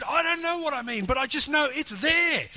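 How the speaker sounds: acting out someone utterly sure but unable to explain; excited insistence. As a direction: insist with growing force. Retold insistence to baffled friend.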